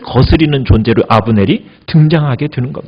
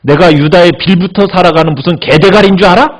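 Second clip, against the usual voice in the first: angry retort. Retold or imitated. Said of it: "아주 화를 내는 거예요".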